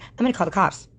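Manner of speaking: mocking the man. Retelling the dispensary fight, mimicking the man lightly. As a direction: imitate the threat with a mock voice. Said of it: "So he's like".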